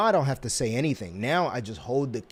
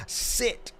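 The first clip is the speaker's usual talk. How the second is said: whispered command; 11 semitones higher than usual. Acted. Training cat to sit.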